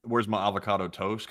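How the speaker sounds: understated Californian accent. Shown as a demonstration. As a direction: lightly imitate a Californian asking, barely performed. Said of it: "kind of like, you know".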